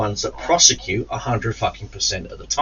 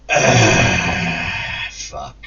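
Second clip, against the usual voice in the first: tired sigh; 2 semitones lower than usual. Retold or imitated. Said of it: "footage of me just going".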